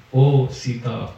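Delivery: "Oh, Sita" said low, slow and gently; calm reasoning. Acted. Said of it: "And he calmly reasoned".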